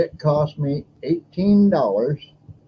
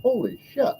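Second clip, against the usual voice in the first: mildly heated, higher-pitched complaint; retold anger; 6 semitones higher than usual. Retelling a rant at the hot dog cashier, mildly angry. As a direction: replay the outrage at the price, half-heartedly. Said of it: "That made me mad".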